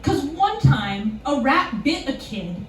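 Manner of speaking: slow, mildly indignant explanation; understated imitation of indignation; retold indignation. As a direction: spell it out slowly as an affronted clerk. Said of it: "the indignation in her voice".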